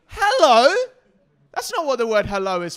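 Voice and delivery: high, loud barked hello; commanding mum shout. Retold or imitated. Mimicking the mum scolding the teen, high loud command. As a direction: bark it like an order. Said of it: "I thought that was so incredible".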